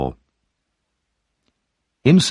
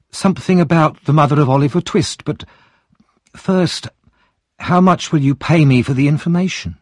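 higher, sharp bargaining woman; shrewd wife voice; 6 semitones higher than usual. Acted. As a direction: drive a hard bargain.

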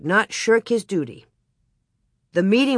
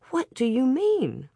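more awake; 7 semitones higher than usual. A narrator's reading. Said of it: "more awake now".

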